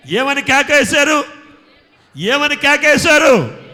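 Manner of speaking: loud, slow shouted question; preacher's shout. Real, not acted. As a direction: roar it out to the crowd. (బోధకుడి పెద్ద కేక)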